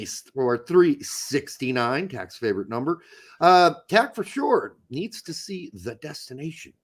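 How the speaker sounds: talking with tissue in nose; nose plugged with tissue; tissue up one nostril. Real, not acted. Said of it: "with some tissue in my nose".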